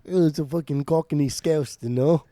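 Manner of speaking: lightly put-on Cockney Scouse muddle; badly faked English accent, Cockney-Scouse; mock Cockney Scouse accent. Co-host answers the dialect question in a mock Cockney Scouse accent. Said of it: "So he did it again".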